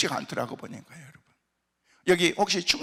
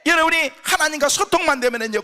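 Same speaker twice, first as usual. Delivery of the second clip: fervent shout; 6 semitones higher, 5 dB louder than usual. Real, not acted. Pastor exhorting the congregation.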